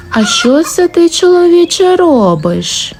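high wife's voice, dropping on the last word; questioning wife. A narrator's reading. Wife catches husband grabbing hens, questioning. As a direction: challenge him high, then let it fall.

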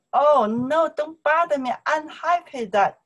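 high, loud brush-off; annoyed busy student. Pretend. Student to a pestering friend, loud exasperated brush-off. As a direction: shoo the pest away, exasperated. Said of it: "Somebody bothers".

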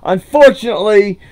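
upbeat sign-off to viewers; YouTube outro. Acted. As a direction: wrap up the video for your audience.

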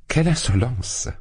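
high, outraged "Quelle insolence!"; indignant cry. A narrator's reading. Dounia leaps up and cries out in outrage. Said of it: "s'écria Dounia".

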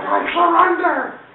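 very high, loud, drawn-out wail; mock surrender cry. Charlie crawls out to the cops, high mock surrender. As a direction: imitate him giving up in a falsetto cry.

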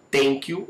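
"thank you" said as "tenk you"; hard T in place of TH in "thank you"; learner's wrong "thank you", starting with T; mispronounced T. Shown as a demonstration. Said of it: "a gente não fala".

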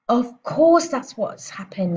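slow, high, loud realisation; cried out. A narrator's reading. Mother seizing on Matilda's explanation, cried out. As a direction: cry it out emphatically. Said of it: "the mother cried".

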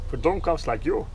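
a playful German put-down in a hammed-up accent. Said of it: "Sorry for the German accent".

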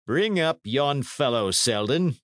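usual speaking voice

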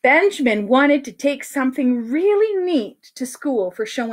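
animated, drawn-out storytelling; story read to children. A narrator's reading. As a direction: read it to a room of kids.

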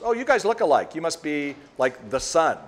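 high, loud imitated chirp; awkward. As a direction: mimic a flustered lady covering her awkwardness. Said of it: "she's now awkward. She doesn't know".

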